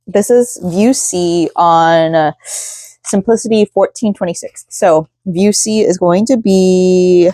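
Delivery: slow, drawn-out influencer voice. Acted. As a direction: talk like a lifestyle influencer. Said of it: "I'm talking with, like, that influencer voice".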